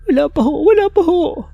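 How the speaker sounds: high-pitched Laika voice. Acted. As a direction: explain it in a shrill falsetto, anxious. Answering the caretaker, frightened.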